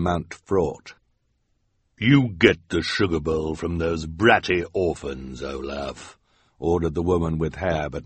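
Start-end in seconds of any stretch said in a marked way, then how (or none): 2.0-6.2 commanding villainess. Acted. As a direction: give the order coldly. Woman with hair orders Olaf.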